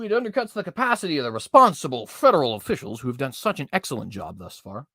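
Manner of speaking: mild sarcasm on "excellent job"; sarcastic reading. Acted. Vlogger reading the OSHA statement with mild sarcasm. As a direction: read it with a light sneer. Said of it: "I hope you can hear the sarcasm in my voice".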